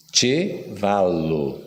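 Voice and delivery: "Chevalo" very slowly, "ch" as in "tch", stress on "va"; slow Esperanto word. Shown as a demonstration. Teacher teaching the audience the word for horse, slowly. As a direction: draw out "Chevalo" syllable by syllable. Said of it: "Como é que se fala cavalo em Esperanto?".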